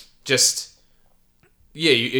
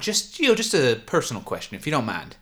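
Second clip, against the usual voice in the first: higher, prying cashier; curious cashier; 5 semitones higher than usual. Acted. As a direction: ask nosily.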